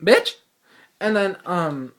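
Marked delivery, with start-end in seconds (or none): 0.0-0.4 high, loud disbelieving rise; shocked, indignant question; a loud, rising, outraged bitch; incredulous bitch. Retold or imitated. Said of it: "I'm looking down, and I'm like".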